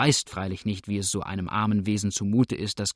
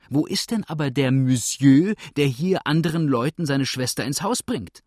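raised, sharp indignant question; indignant demand; 4 semitones higher, 4 dB louder than usual. Acted. Wife demands where the brother went, indignant. Misses Smart demands angrily.

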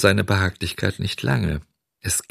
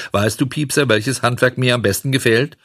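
pointed; 5 semitones higher than usual. Acted. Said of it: "und er sagte spitz".

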